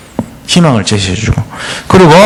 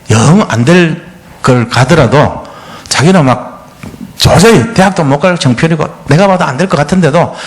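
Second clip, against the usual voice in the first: ordinary delivery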